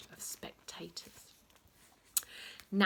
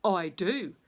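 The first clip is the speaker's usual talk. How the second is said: defiant retort; 8 dB louder than usual. Acted. Defiant reply.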